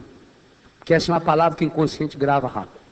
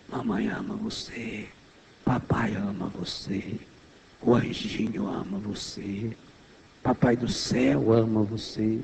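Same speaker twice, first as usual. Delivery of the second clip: much softer and lower, tender murmur; hushed lower lullaby voice; soft bedtime whisper; 7 semitones lower, 9 dB quieter than usual. Shown as a demonstration. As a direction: murmur love over a sleeping child. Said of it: "Falando baixinho, suave".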